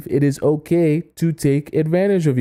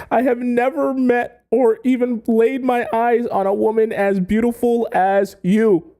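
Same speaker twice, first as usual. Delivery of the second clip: high, pleading voice of a man on his knees; begging admirer; 10 semitones higher than usual. Retold or imitated. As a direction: beg her like a smitten man at the store, way up high. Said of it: "He's begging".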